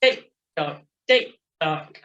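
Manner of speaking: regular metronome tick-tock; brisk cadence count. Shown as a demonstration. Coach repeats the beat for riders, brisk cadence count. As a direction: beat out a brisk, even rhythm. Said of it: "You want it again?".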